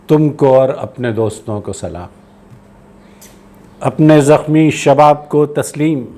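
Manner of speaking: slow, measured verse with falling line ends; poetry recitation. Acted. Poet far from home saluting his beloved streets, measured recitation. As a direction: address the streets in spaced-out lines.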